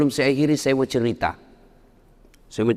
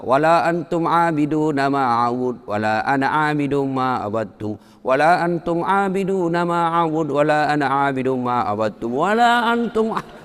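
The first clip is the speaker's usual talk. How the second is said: Quran recitation, imitated; 2 semitones higher than usual. Imam looping through Al-Kafirun in prayer, chanting. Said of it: "Dia baca".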